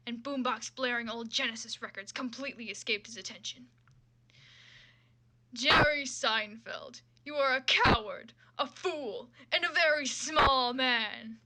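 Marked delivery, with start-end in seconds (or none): 5.5-11.4 slow, louder mock-grand denunciation; mock declaration. Villain declaring Jerry a coward, loud and slow. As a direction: declaim each insult slowly. Character insults Jerry in story.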